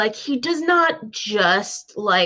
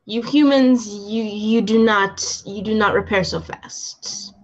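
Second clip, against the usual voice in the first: bad heavy Russian accent. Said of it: "in my bad heavy Russian accent".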